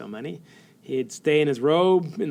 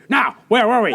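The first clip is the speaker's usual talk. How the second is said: higher and louder, sheepishly changing the subject; embarrassed Bo; 8 semitones higher, 9 dB louder than usual. Retold or imitated. Coach caught on a sweet call, turning back to the interviewer, embarrassed and louder. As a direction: caught out, pretending nothing happened. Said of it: "a little embarrassed and say".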